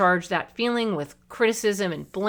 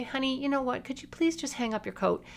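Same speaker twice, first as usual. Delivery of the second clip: gentle, sweet, soft, high, nice-natured tone; 7 semitones higher, 7 dB quieter than usual. Showing what you could say to someone who gets embarrassed when corrected, saying it nicely. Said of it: "it doesn't matter how nicely you say it".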